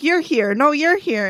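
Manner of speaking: lightly acted surprised retort; imitated surprise. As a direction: play startled ghosts pointing at each other. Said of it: "the ghosts are surprised they're here".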